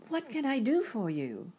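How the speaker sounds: put-on high, gentle girl's voice; soft inquiry. A narrator's reading. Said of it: "she inquired softly".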